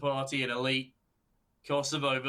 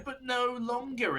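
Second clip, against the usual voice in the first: excited; 10 semitones higher than usual. Real, not acted. Sudden clutch turnaround call.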